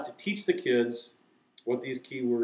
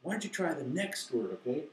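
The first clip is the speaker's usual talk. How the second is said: gentle acted encouragement, softening as it goes; affirming, encouraging; 2 semitones higher, 5 dB quieter than usual. Teacher to a kid who missed it, gently encouraging. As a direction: let a child down kindly, trailing softer. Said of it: "Then just affirm, encourage, say".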